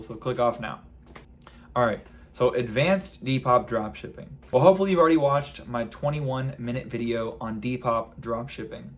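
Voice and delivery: talking around a retainer; slight lisp from a retainer; wearing a retainer. Real, not acted. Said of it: "I've got my retainer in".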